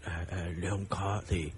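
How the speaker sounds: stammering fear. Acted. Old man denies it to his wife, stammering low. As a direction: stumble over each word.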